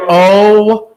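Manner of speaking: very slow, drawn-out laughing disbelief; exasperated. Retold or imitated. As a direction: stretch it out in amused disbelief. Reacting to dad's postcard request.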